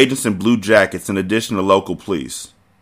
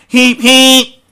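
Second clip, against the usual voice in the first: high, loud honking noise; car horn honk; 9 dB louder than usual. Acted.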